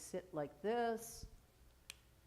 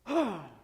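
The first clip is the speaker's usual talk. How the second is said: demo sigh; 7 dB louder than usual. Shown as a demonstration. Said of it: "you're gonna go".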